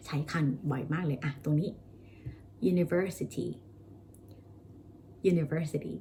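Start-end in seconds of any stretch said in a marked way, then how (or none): 2.7-3.5 university said clearly as a model; teacher modelling university; model pronunciation. Shown as a demonstration. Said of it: "stress อยู่ตรงที่ ver นะคะ". 5.3-6.0 university repeated as a model; teacher repeating university; model pronunciation. Shown as a demonstration. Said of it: "stress อยู่ตรงที่ ver นะคะ".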